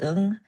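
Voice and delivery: "ung" with short oo and ng ending; name the letter "ung", rhyming with German jung; letter-name demonstration. Shown as a demonstration. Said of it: "the circle is called".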